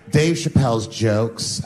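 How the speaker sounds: slow, prissy reading of Dave Chappelle's jokes; lightly voiced pompous blogger; made-up blogger voice. Comic mimicking an online blogger, slow and prissy. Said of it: "he was like".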